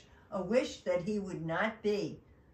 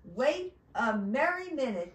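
louder, higher storybook halt; elf's cry; 4 semitones higher, 6 dB louder than usual. Acted. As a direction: call out in protest as the elf. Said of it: "cried the elf".

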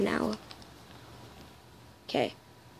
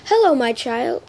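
lightly voiced motherly greeting; attempted feminine, slightly older voice; Toriel impression; 3 semitones higher, 3 dB louder than usual. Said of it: "time for Toriel".

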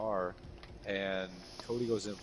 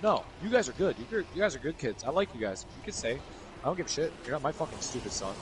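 mock father reassurance; 5 semitones higher than usual. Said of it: "And he's like".

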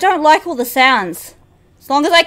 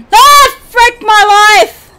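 exasperated groan; 5 semitones higher, 6 dB louder, slower than usual. Real, not acted. Exasperated at losing.

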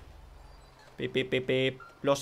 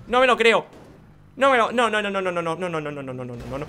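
exasperated disbelief; 7 dB louder than usual. Real, not acted. Gamer who can't believe what just happened, exasperated disbelief.

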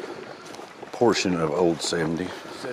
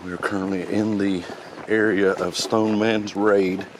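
slightly out of breath while walking. Real, not acted. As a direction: talk between breaths, winded from the walk. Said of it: "Sorry, I'm a little out of breath".

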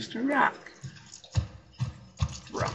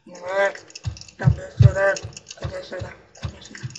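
mock nagging; 3 semitones lower, 4 dB louder than usual. Mocking nagging voice, fading.

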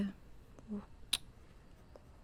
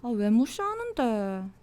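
sulky complaint; slower than usual. Acted. Complains at being ignored.

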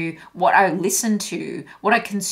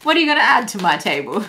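sassy challenge; 4 dB louder, faster than usual. Acted. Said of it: "That's that kind of energy".

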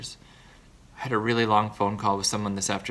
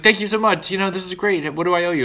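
grateful neighbour; 8 semitones higher, 3 dB louder than usual. Retold or imitated. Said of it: "And he was like".

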